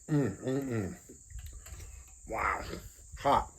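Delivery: blowing on hot food. Real, not acted.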